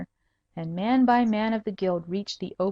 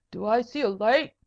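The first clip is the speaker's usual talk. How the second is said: whining voice; 3 semitones higher than usual. Acted. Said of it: "said the voice".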